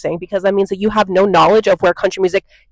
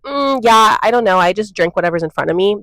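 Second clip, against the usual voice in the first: indifferent mock. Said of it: "you're just gonna be like".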